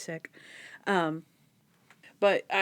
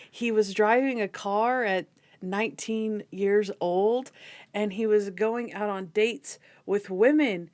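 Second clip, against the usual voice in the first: slow, measured mock-scandalized quote; lightly acted, deliberate indignation; imitating Ambrose. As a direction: draw out each phrase with weighty emphasis. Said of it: "just the way that he says that is the best".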